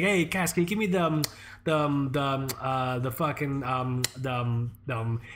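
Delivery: stammering for the word, trailing off; halting string of ums, fading; imitated fumbling dad. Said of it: "just like a desperate man grasping at straws".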